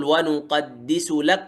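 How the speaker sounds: slow ونقدس لك with the kaf of لك run into the qaf of قال; merged kaf into qaf. Shown as a demonstration. Teacher reciting slowly to show the merge. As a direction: drag it out slowly and fold the k of لك into the q. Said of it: "يقول".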